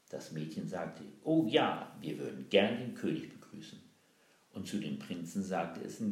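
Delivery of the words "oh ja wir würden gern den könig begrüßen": high, loud mock eagerness; feigned delight. Girl fakes delight to meet the king, loud and high. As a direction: gush with fake enthusiasm.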